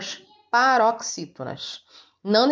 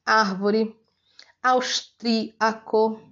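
"Árvore, austríaco" separated slowly by syllable; teacher's careful list of proparoxytone examples; third-last-syllable stress; 4 semitones higher, much slower than usual. Shown as a demonstration. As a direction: sound out "austríaco" piece by piece, TRÍ strong. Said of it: "Exemplos aí de proparoxítonas".

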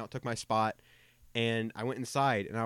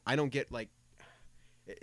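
normal talking voice

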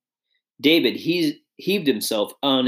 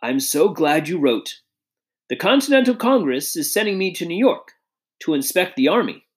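put-on a lightly higher, genial old gentleman; elderly statesman voice; 4 semitones higher than usual. Old statesman greets the letter writer, lightly voiced and genial. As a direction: greet the young man kindly, a touch raised.

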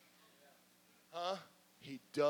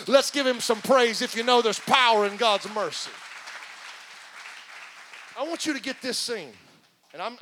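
rhythmic sermon cadence; preaching; slower than usual. Acted. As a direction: preach with rising fervor.

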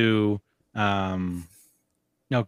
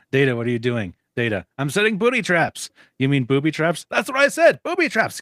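Data and friends; 3 semitones higher than usual. Retold or imitated. Fan replays Data's booby trap exchange in a higher kid voice. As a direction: squeak it like an eager little kid. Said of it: "Data was very funny".

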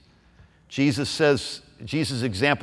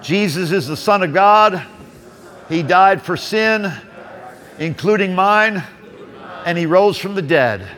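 prayer. Acted. Leading salvation prayer aloud.

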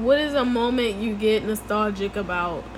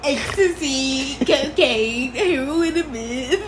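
mocking repeat; slower than usual. Mocking the friend's drug list.

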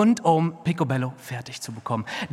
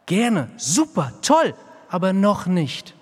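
mock excuse; 5 semitones higher, 3 dB louder than usual. Volk's excuse mimicked mockingly.

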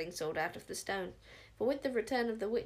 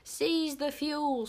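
slow, loud scream with SEIZE hit hardest; lunatic scream; 6 semitones higher, 5 dB louder, much slower than usual. A narrator's reading. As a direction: bellow the order slowly, leaning on SEIZE. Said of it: "screamed the lunatic witch Smeller".

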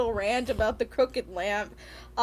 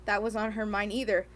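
reading aloud; 3 semitones lower than usual. Acted. Host reading the novel excerpt to co-hosts. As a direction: read the passage, a touch flat.

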